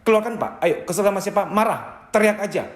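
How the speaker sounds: urging encouragement. Shown as a demonstration. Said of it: "Anda harus ngomong ke dia".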